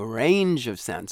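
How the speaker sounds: RANGE drawn out, rising then falling; up-and-down intonation. Shown as a demonstration. Coach showing vocal range, slow rise and fall on RANGE. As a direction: slowly swing "range of sound" up and down. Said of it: "you're going up and then you're coming down".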